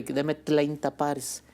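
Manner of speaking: "treinta" said with L for R, like "tleinta"; imitating mispronounced R. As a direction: mimic a child who can't roll the R in "treinta". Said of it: "problema de pronunciación con la R". (imitando "treinta" con L en vez de R)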